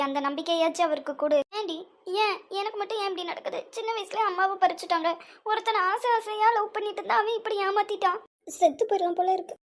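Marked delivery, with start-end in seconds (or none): 1.6-9.6 crying despair. Acted. Betrayed daughter crying to her friend, choked sobs. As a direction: let the sobbing break through each question. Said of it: "இப்படியே அழுதுகிட்டே இருக்க போறியா".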